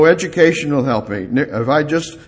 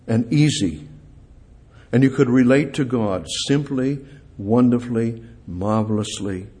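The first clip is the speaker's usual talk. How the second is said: soft and tender; 4 semitones lower, 4 dB quieter than usual. Acted. Soft reflective passage.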